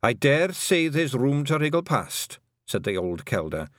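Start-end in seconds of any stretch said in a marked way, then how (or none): 0.0-2.4 calm. A narrator's reading. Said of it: "in the kind of calm voice".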